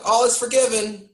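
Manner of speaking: high, gushing fake welcome; hammed-up crowd forgiving its hero; mock rejoicing. Imitating the tribe after the dragon ride, high mock joy. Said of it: "they're all like".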